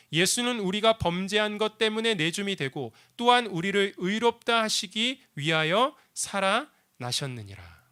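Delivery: even, measured reading; scripture reading. Shown as a demonstration. Pastor reading the verse aloud, measured. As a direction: read it out steadily, slowing at the end. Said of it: "말씀 이렇게 우리에게 들려주고 있습니다".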